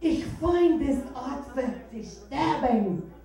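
put-on slow, loud German accent; drawn-out German-accented outburst; German yell. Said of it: "will suddenly yell out".

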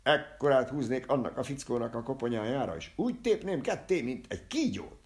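loud, high-pitched threat; violent threat. Acted. Barber threatening to tear a fellow in two, loud rant. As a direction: rant with rising force.

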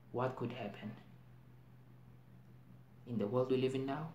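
deliberate monologue with heavy pauses; dramatic monologue. Acted. Actor explaining why people are terrified, dramatic monologue. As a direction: pull back to measured, uneasy stage delivery.

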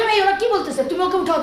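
frantic plea; retold urgent outcry. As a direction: call out in panic to lift him. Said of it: "তাই বলছে".

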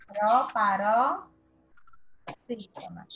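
"Proparoxítona" stretched very slowly, each syllable spaced out; slow classroom drawl on "Proparoxítona". Shown as a demonstration. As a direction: spell out the word slowly for the class. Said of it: "teacher drawing out the term".

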